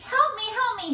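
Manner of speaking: high frantic squeak; squeaky plea. A narrator's reading. Mouse begging for help while fleeing. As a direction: beg in a tiny squeak. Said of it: "she squeaked".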